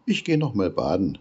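a cheerful duckling rushing back to the water. A narrator's reading. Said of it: "sagte das Entlein".

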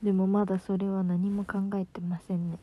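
ordinary talk, nothing marked

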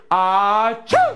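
drawn-out fake "ahh-choo"; mock sneeze. Entertainer counts children in to sneeze, big fake sneeze. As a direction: build up to a pretend sneeze. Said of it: "Sneeze, ready?".

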